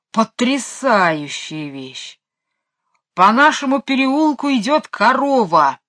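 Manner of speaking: slow build-up into a loud, high announcement; great excitement. A narrator's reading. Michael jumping on the windowsill, excitedly announcing a cow. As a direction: announce amazing news, rising to a loud cry. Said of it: "в величайшем возбуждении".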